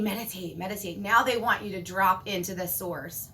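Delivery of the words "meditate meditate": softly coaxing meditate, meditate; a hushed, gentle repeat; mock soft urging. Voicing the world urging everyone to meditate. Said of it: "They're saying".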